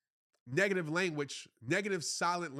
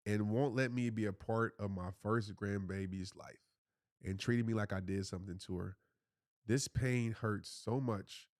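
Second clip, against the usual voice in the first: reading a message aloud; 7 semitones lower than usual. Acted. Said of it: "So Chanel said".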